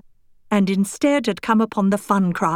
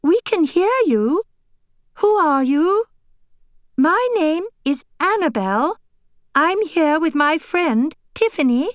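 calling out; 7 semitones higher than usual. Acted. Calling into the package.

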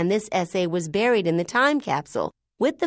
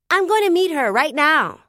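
loud high shout back; 8 semitones higher, 5 dB louder than usual. Acted. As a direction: yell without turning around. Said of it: "I shouted".

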